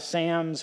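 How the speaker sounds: "Psalms" said as "Sams"; "Psalms" rhyming with "hams"; Scottish-style "Sams". Retold or imitated. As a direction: say "Psalms" with the vowel of "Sam". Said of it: "you pronounce Psalms as Sams".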